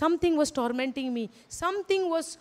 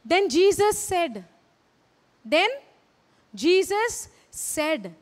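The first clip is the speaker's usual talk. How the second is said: slow dramatic buildup; much slower than usual. Acted. Preacher builds up to scripture.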